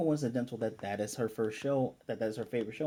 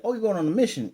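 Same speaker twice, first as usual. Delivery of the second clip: imitating an excited little girl, higher and louder; excited child; 8 semitones higher, 8 dB louder, faster than usual. Retelling the girl grabbing his leg, excited child. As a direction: blurt it out like a thrilled kid.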